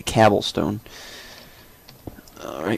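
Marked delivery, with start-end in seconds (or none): 0.0-0.8 "cobblestone" said as "cabblestone"; "cobblestone" with the A of cab; joke mispronunciation. Shown as a demonstration. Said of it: "was about to say cobblestone".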